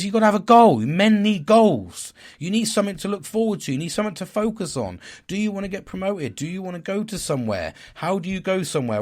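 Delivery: high, loud imitation of the doctor telling him off; retold doctor lecturing. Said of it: "He goes".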